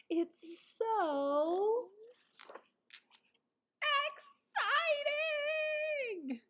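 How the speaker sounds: very high, slow rising squeal; high, stretched, thrilled cry; overexcited squeal. Acted. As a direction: let the excitement burst out. Skunk overexcited in story.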